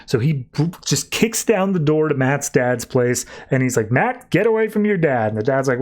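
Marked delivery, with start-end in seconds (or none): 3.9-5.3 higher, sharp urgent call; urgent warning. Retold or imitated. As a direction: warn him off fast. Midnighter bursts in warning Matt.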